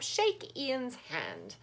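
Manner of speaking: Albert coaxing Whitecap to shake hands; gentle old organ grinder command. Acted. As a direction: coax the dog slowly, word by word. Albert instructs the dog.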